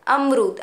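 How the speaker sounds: अमरूद with the रू held a little long; अमरूद, long but not too long. Shown as a demonstration. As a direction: stretch the oo in अमरूद. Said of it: "र को ज़्यादा खींचेंगे".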